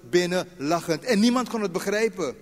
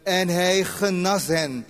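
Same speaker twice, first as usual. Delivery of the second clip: scripture reading; 3 dB louder than usual. Acted. Preacher reads Matthew aloud to the congregation, measured. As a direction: read the verses out, measured and louder.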